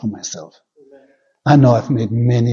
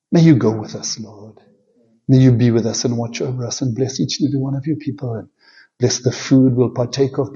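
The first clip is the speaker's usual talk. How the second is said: pastoral prayer. Acted. Preacher praying over his congregation, earnest and steady. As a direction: pray over the people, unhurried.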